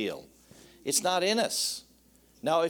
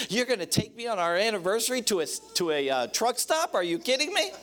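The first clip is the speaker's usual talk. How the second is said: mock angry wife; 5 semitones higher than usual. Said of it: "she's all angry and mad".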